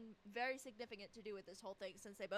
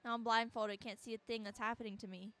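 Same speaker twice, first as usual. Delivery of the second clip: earnest first-person narrator; measured, dramatic reading; story narration; 3 dB louder than usual. A narrator's reading. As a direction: narrate the captive's plight. Reads game narration aloud.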